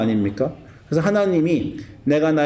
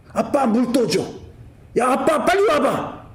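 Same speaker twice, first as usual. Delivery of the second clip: put-on high, drawn-out kid calling for dad; pitched-up child yelling for dad; whiny son calling; 8 semitones higher than usual. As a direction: call up the stairs like a demanding son.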